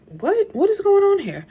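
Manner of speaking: high-pitched, disbelieving what?; stunned disbelief. Retold or imitated. Reader reacting to the rival's threat, in shocked disbelief. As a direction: ask it as if you can't believe your eyes.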